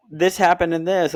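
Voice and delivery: imitating a confused partner, hammed-up; mock confused girlfriend. Girlfriend quoted arguing.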